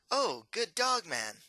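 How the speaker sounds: flustered prince misnaming the wolfman; stumbling prince. Acted. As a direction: fumble the greeting to the beastman. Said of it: "he shakes and stumbles on his words".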